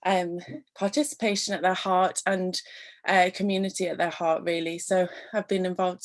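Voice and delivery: out of breath. Real, not acted. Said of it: "sorry, I'm really out of breath".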